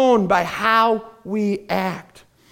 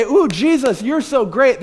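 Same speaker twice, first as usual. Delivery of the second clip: mock fanboy gushing; 3 semitones higher than usual. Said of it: "They're not there to say".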